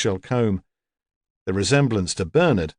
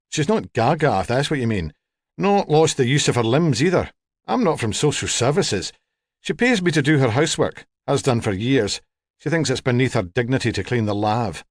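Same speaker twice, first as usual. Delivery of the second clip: lightly voiced, matter-of-fact home help; a hint of a no-nonsense cleaner; plain-spoken home help. Home help explaining her client to a visitor, lightly voiced.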